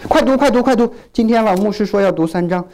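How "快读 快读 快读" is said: hurried reader. Acted.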